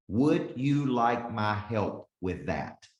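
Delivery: slow, deliberate ask; calm demo of a sales close; slow closing question. Shown as a demonstration. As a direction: lay out the offer slowly and plainly. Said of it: "Does everybody see how simple that was?".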